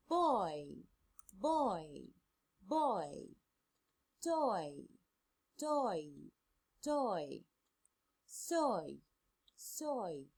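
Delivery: put-on each word said three times with a clear "oi", "boy" "ploy" "annoy" "destroy" ending on a falling tone; slow model reading for students to repeat, the "oi" rounded and full; oi word drill. Shown as a demonstration. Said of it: "You have to practice read them correctly".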